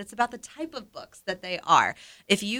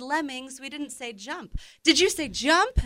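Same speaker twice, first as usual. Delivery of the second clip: higher-pitched picture-book dialogue; voiced story characters; 7 semitones higher than usual. Retelling the lemmings story to co-hosts, lightly acted. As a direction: lightly act out the exasperated exchange.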